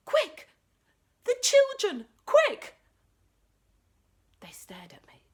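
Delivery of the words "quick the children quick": much higher, louder urgent yell; shouting. Acted. Boy warning the chatting parents, yelling urgently. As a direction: sound the alarm across the room. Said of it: "I shouted".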